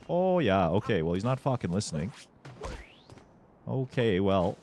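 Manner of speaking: joking mock Canadian accent, lots of eh and bud. Streamer teasing Cappy and chat, mock Canadian accent. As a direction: lay on a hammy Canadian accent for fun. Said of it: "throw on the Canadian accent in there for funsies".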